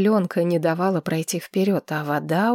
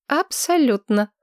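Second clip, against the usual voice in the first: defiant; 6 semitones higher than usual. A narrator's reading. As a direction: answer boldly, chin up. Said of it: "дерзко ответила Маргарет". (дерзко)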